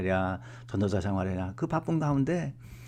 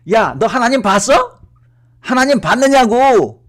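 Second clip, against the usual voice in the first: much higher, loud exasperated demand; irritated father; 12 semitones higher, 13 dB louder than usual. Retold or imitated. Father snapping at his son about God. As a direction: bark it like a fed-up father. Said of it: "아버지가 항상 짜증을 내면서".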